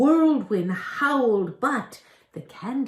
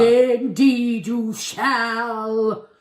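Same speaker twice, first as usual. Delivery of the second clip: very slow ominous promise; menacing goblin; 2 semitones higher, 5 dB louder, much slower than usual. Acted. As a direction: draw it out like a threat.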